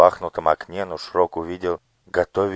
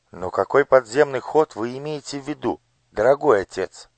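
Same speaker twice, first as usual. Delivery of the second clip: a puzzled, raised lady's question; surprised lady; 7 semitones higher than usual. Acted. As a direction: ask your father in mild surprise. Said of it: "удивлённо спросила прекрасная дама". (удивлённый вопрос дамы)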